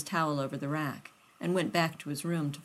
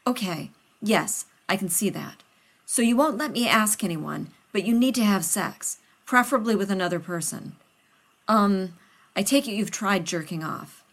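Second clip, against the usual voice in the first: louder, eager flustered scientist voice; a nervous friend rushing to help; loud and hurried, anxious to please; Rodney, flustered; 2 semitones higher, 6 dB louder than usual. Acted.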